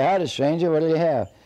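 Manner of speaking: loud, high hail to a stranger; called-out greeting. Acted. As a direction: call it down to someone at the gate. Big man calls down to gate.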